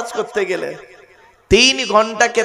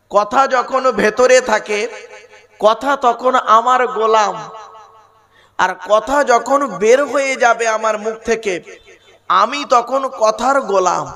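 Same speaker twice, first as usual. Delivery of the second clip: slow deliberate maxim; each phrase weighed and spaced; slow, weighty delivery. Shown as a demonstration. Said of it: "আবার বলছি".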